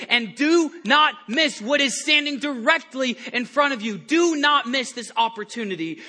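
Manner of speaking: loud, high urgent plea; urgent preaching shout. Real, not acted. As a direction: drive it home to the congregation. Preacher urging congregation.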